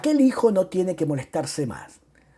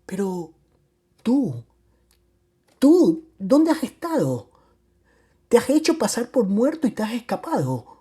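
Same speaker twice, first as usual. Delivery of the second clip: high-pitched, outraged outburst; mother-in-law shouting; 7 semitones higher than usual. A narrator's reading. Mother-in-law screams at man believed dead, shouting. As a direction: start halting, then cry out accusingly. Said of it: "Comenzó a gritar la pescatore".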